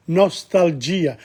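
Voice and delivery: slow; Italian nostalgia. Shown as a demonstration. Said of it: "not nostalgia".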